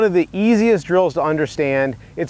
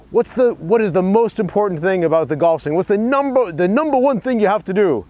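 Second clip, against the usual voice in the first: higher-pitched, rough attempt at a famous golfer's accent; bad Gary Player accent; 4 semitones higher than usual. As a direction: badly imitate the golf legend's accent, pitched up. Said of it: "Sorry for my bad Gary Player accent".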